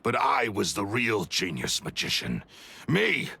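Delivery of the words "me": proud exclamation. Acted. Boasting he was real genius.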